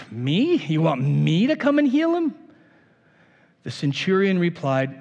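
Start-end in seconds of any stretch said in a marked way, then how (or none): 0.1-0.6 incredulous "Me?" rising on "You want me to come"; a surprised Jesus asking back; surprised question. Shown as a demonstration. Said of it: "I'm gonna read it in a different tone this time". 0.6-2.3 "You want me to come and heal him?" asked back in disbelief; a startled echo of the request; incredulous question from Jesus; surprised question. Shown as a demonstration. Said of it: "read it in a different tone this time".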